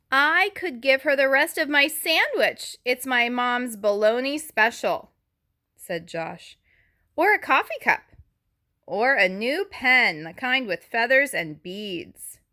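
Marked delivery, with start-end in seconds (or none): 0.1-5.1 put-on higher, louder kid's voice offering a gift; eager child voice. Child character voiced in story. 7.2-12.4 put-on a child throwing out gift ideas; excited kid voice. Child character voiced in story.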